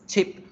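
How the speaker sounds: "ship" with a brief, relaxed i; clipped short vowel in "ship". Shown as a demonstration. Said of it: "la pronuncio con la I corta".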